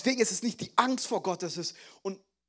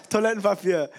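"Toilettenpapier" louder, incredulous, falling hard; louder mock-exasperated "Toilettenpapier"; exasperated disbelief; 5 dB louder than usual. Real, not acted. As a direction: throw out "Toilettenpapier" like you can't believe it. Repeated in disbelief.

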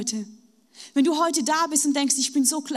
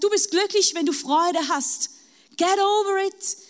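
higher, brushing-off voice of the world; mocking the world; 5 semitones higher than usual. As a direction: toss it off dismissively. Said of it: "weil die Welt sagt". (spöttisch, abwinkend, höher)

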